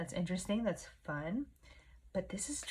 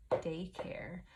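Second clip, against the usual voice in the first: whispering. Real, not acted. Whispers while writing on calendar.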